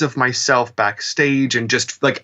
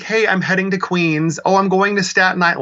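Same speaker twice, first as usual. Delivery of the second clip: mock tough New Yorker; 7 semitones higher than usual. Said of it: "it just sounded so New Yorky and so tough".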